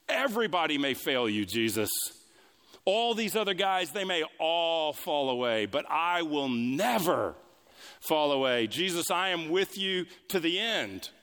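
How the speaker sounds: mock cocksure vow, swelling on key words; boastful. Peter vowing loyalty to Jesus at the Last Supper, boastfully. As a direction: declare it with arrogant assurance. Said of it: "Peter boastfully, arrogantly, confidently, assuredly says".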